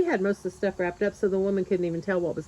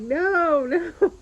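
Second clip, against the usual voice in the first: high, raised-voice cry of protest; mock scream, louder and pitched way up; retold scream; 9 semitones higher, 5 dB louder than usual. Buyer sees helper lugging the chest away, screaming to stop. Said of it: "I'm screaming at her to stop".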